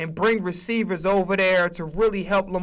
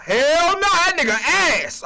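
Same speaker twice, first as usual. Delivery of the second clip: mock Parker; 9 semitones higher, 5 dB louder, slower than usual. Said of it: "He's like".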